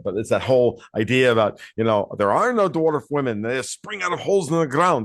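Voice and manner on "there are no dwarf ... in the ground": Scottish dwarf voice. Retold or imitated. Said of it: "which I do a terrible Scottish accent".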